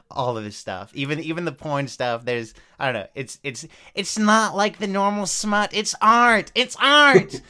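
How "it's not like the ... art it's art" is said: rising mock emphasis. Mock-posh art defence, rising.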